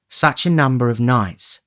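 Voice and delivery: woman's tenderness; tender. Acted. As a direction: soften into it. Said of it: "with a touch of a woman's tenderness".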